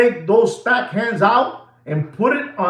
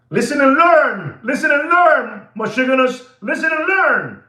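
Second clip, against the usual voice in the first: rally the viewers with a raised voice; calling out; 5 semitones higher than usual. Real, not acted. Calls out to viewers.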